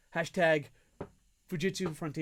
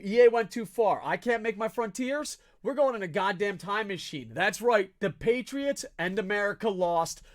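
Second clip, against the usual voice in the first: loud, high, furious tirade; angry rant; 3 semitones higher, 4 dB louder than usual. Real, not acted. Fan raging at EA for cutting his team. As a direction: scream it all away from them. Ranting at EA, America gone.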